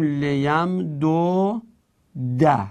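ل یم دو ده slowly, as le-yam-do-da; final fatha added. Shown as a demonstration. Teacher gives the silent dal a vowel, final fatha. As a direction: open the last dal into a short "da". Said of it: "حرکت فتحه بدیم".

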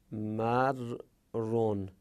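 drawn-out syllable by syllable; slow careful reading. Shown as a demonstration. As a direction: spell the word out slowly, x0.4. (آهسته و هجا به هجا)

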